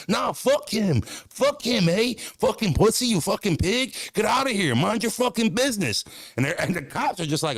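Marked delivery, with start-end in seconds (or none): 0.1-6.0 high mocking Canadian heckler; Canadian accent. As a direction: jeer in a hammed-up Canadian voice. Imitating the Canadians cussing cops.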